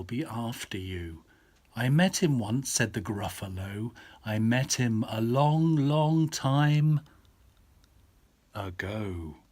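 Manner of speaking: put-on lively read-aloud to a child; storyteller voice for a little girl; bedtime story reading. A narrator's reading. Dad reads bedtime story.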